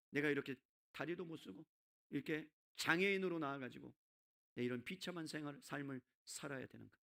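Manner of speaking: low, sinking despair; bitter self-pity, dropping low and quiet; resentful lament. Acted. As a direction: let the complaint fade down into softness. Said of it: "원망하지 않았겠어요?".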